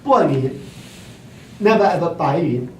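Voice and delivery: "不匀" said with fourth tone, not "白匀"; ancient pronunciation. Shown as a demonstration. Teacher correcting pronunciation for the class. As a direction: say "不匀" with a falling fourth tone. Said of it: "It's pronounced as Bo".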